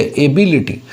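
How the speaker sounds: एबिलिटी said carefully as e-bi-li-ti; model pronunciation. Shown as a demonstration. Teacher answering how एबिलिटी is pronounced. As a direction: spell out एबिलिटी clearly, each syllable. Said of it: "तो इसका pronunciation क्या है?".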